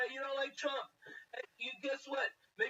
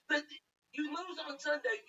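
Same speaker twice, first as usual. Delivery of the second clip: ordinary delivery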